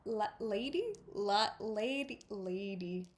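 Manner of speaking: halting Irish, retrying words; attempted Irish accent. Shown as a demonstration. Reader stumbling through names, halting Irish accent. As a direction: feel for the Irish vowels as you read. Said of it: "read that page in my best Irish attempt".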